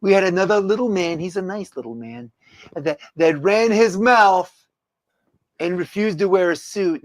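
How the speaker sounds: Trump impression. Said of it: "could you read this, uh, in your Trump voice".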